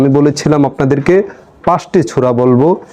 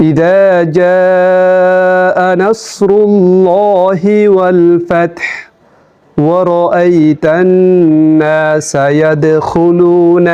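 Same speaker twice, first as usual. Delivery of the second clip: teaching recitation, more joined up; Quran recitation again. Shown as a demonstration. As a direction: recite the sura again as a model. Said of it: "আমি বলছি".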